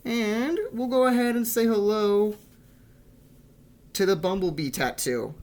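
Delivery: bright playful announcement; playful excitement. Real, not acted. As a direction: hype up the tattoo reveal. Playful intro to tattoo.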